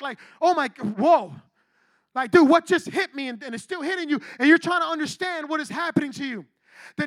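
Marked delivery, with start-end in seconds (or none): 0.4-1.3 mild acted shock, louder. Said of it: "you become shocked". 2.3-3.3 loud, stunned blurt; shocked. Acted. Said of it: "you become shocked".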